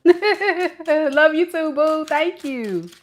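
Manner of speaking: very high, loud cooing with laughs. Real, not acted. Mother cooing high and slow at little Keita.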